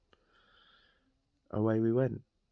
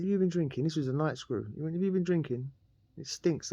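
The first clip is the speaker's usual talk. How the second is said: higher voice, mock prison officer; suspicious guard; 6 semitones higher than usual. Night guard at the cell door, suspicious mock officer voice. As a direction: play the night screw sniffing out drink.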